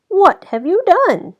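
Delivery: high, loud outraged cry; furious demand; angry shout. A narrator's reading. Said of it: "cried the woodcutter".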